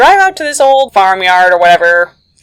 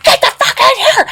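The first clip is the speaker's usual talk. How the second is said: much higher, laughing yell; frantic shout. Retold or imitated. Agent screaming at them to get in the car, laughing yell. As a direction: bark it out, half laughing at the chaos. Agent repeats order, more urgently.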